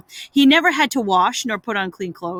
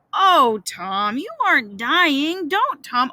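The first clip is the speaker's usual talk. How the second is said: higher, upset plea; distressed pleading; 4 semitones higher than usual. Acted. Brother begging the sick boy not to die, distressed. Brother fears Tom is dying.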